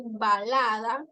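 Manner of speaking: "balada" said slowly, with the "b" closed on both lips; teacher modelling the lip sound in "balada". Shown as a demonstration. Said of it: "Ya utilizamos los labios".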